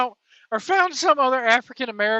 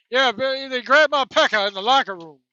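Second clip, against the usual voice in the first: louder, garbled mumbling impression; Tony Atlas mumbling impression; 5 dB louder than usual. Host mimics Atlas repeating himself, louder and mumbled. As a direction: slur it like marbles in the mouth. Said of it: "talks like he's got marbles in it".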